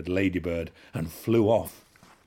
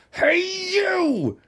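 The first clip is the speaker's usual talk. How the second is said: challenging shout; 9 dB louder than usual. A narrator's reading. Ladybird picks a fight.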